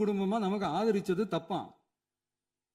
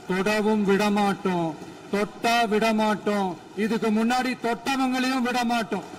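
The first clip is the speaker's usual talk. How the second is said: emphatic vow; 5 dB louder than usual. Real, not acted. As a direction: pound out each phrase like a pledge. Vow in assembly speech.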